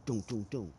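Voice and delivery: soft knocking sound doom doom doom; imitated door knock. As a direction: mimic a quiet knock on the door. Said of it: "there was a knock on the door".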